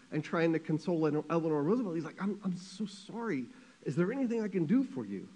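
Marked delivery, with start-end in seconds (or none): 2.2-5.3 higher, softly pleading mock tearful voice; lightly acted crying sympathy; tearful consoling. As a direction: act choked up, offering comfort. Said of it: "Harry Truman starts crying and".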